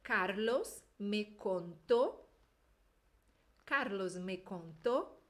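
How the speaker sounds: slow model reading with a closed O in contó. Shown as a demonstration. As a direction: read it slowly for the class to repeat. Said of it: "vamos ler essa frase aí". (leitura lenta e clara)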